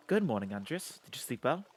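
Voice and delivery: lightly voiced woman; female voice. Clara greets Andres in the morning, lightly voiced female. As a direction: put on a hint of a woman's voice, lifting at the question. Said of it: "I do a fucking female voice".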